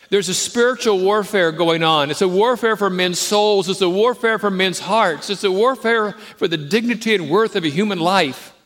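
loud, high, driving sermon climax; full-force preaching. Acted. Preacher rallying the congregation to spiritual war, at full force. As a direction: preach it hard, hammering every line.

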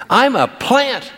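put-on high, slow, proud kid voice; child telling parents about the school play, proud and high; proud little child. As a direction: announce it like a small child thrilled with a tiny part.

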